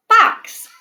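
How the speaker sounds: Box said whole on a high bright rise; cheerful whole word after sounding out; blended word. Shown as a demonstration. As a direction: blend it back together, high and excited. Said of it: "Let's try box".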